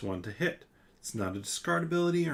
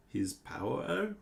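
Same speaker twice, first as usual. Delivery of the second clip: moaning head; 5 semitones higher, 3 dB quieter, much slower than usual. Acted. The head answers Mac.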